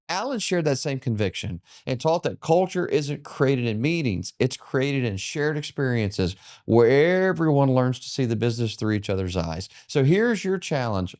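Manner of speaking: rousing podcast wrap-up; upbeat motivational outro read; closing host read. Acted. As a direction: speak to the listener like a motivating host. Host's closing lesson read.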